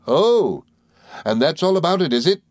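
very high, loud oh; little creature's cry. Acted. Mowcher cries out at the guests, very high. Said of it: "she exclaimed".

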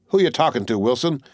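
gruff demand from a corporal; angry corporal. Acted. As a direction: snap the question at the sentry. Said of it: "His voice was anger-toned".

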